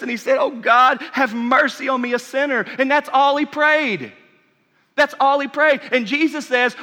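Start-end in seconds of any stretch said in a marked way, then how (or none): 0.4-2.7 pleading cry. Acted. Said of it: "he was beating his chest".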